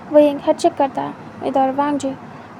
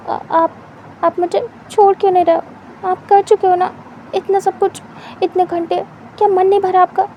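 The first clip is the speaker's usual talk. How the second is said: exasperated plea; 4 semitones higher than usual. Acted. Wing pleading to be let go.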